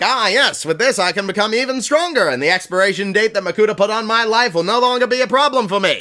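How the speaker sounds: gloating plant villain, lightly voiced; a touch of scheming triumph; Karzani voice. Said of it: "that's how he talks now".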